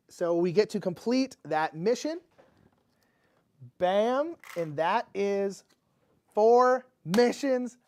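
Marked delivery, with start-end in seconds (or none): 3.8-7.8 slow, building to a loud high cheer; triumphant. Real, not acted. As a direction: crow out the victory. Announcing the win.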